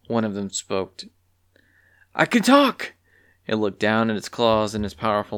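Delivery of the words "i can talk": much higher, astonished beast voice; a beast stunned by its own voice; amazed creature. Acted. Beast amazed it can speak.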